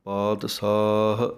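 ਪਾਤਸ਼ਾਹ said slowly, plain s, light h at the end; correct pronunciation. Shown as a demonstration. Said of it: "ਇਹਨੂੰ ਵੀ ਪਾਤਸ਼ਾਹ". (ਪਾਤਸ਼ਾਹ ਸਹੀ ਉਚਾਰਨ)

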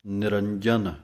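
ਨਿਰੰਜਨ with a short i and a firmly pressed j; careful pronunciation. Shown as a demonstration. Teacher models ਨਿਰੰਜਨ for students with a firm j. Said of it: "ਜੱਜੇ ਨੂੰ ਕੱਸ ਕੇ ਬੋਲਣਾ ਹੈ".

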